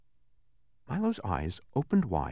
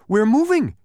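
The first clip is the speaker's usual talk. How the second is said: higher, louder joyful cry; happy shout; 10 semitones higher, 9 dB louder than usual. A narrator's reading. Milo shouting happily as the car moves. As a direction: shout it with delight. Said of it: "he shouted happily".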